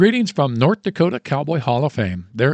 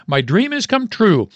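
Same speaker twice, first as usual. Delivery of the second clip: cheering mom; 9 semitones higher than usual. A narrator's reading. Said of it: "the mom cheered".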